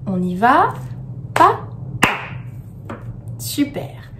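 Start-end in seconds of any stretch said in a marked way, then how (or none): 1.3-2.9 each pa detached with a pause; syllable by syllable. Shown as a demonstration. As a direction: count out pa, pa as separate beats. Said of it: "compter les syllabes".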